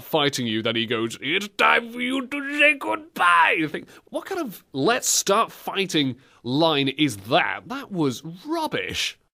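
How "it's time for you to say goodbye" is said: put-on Bronx, Russian, and Jamaican accents mixed, pitched higher. Quoting a boss character's line as the fight starts, in an unplaceable mishmash accent. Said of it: "Anyone got an idea what accent that was?".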